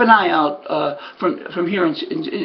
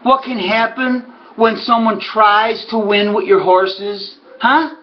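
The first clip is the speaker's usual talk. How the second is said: sarcastic; 3 semitones higher, slower than usual. Retold or imitated. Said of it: "So I say to him".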